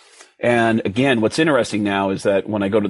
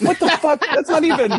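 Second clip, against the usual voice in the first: high laughing outrage; shocked outburst. Retold or imitated. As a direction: blurt it out high in shocked disbelief. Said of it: "And I went".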